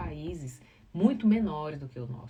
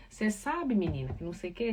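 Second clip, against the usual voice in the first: casual morning-show talk. Retold or imitated. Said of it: "eu não vou poder falar".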